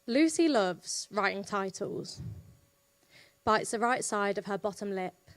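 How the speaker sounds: measured poetry reading with long pauses; poem recital. Acted. Poet reading Spin the Bottle to an audience, measured recital. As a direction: recite line by line, letting each image land.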